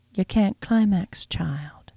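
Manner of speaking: slow, hushed whisper ending breathless. Acted. The madam whispering into the boy's ear, slow and hushed. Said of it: "lowered her lips to my ear to whisper".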